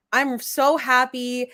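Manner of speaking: slow sarcastic mock cheer. Real, not acted. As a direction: drag out fake happiness. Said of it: "I'm really not that fucking happy".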